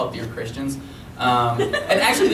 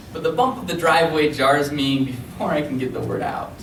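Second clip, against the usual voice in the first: raised, dramatic storytelling recital; comic spoken-word poem. Acted. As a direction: perform the sibling duel like an epic.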